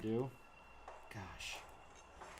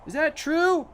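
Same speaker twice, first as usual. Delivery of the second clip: squeaky mouse voice; 13 dB louder, slower than usual. Pretend. Mouse voice continues.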